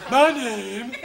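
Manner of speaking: mock French accent for repeating. Teacher giving the class a line to repeat, French accent. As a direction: model the words in a French accent. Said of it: "let's go to the French accent".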